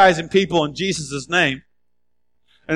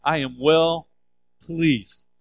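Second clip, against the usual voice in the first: proclaimed louder; 2 semitones lower, 3 dB louder than usual. Acted. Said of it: "You gotta have it, okay?".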